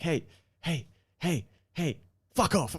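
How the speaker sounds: parrot shouting. Retold or imitated. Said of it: "the parrot was shouting this".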